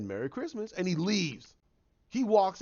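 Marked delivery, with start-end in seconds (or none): 0.0-0.7 cold quiet line. Retold or imitated. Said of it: "he just said".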